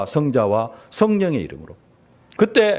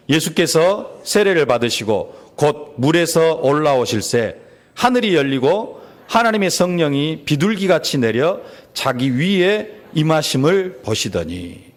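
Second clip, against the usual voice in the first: slow, measured reading aloud; slow, deliberate recitation of scripture; slower than usual. Acted. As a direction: lead the congregation through the verse, drawing out each phrase. Leads congregational scripture reading.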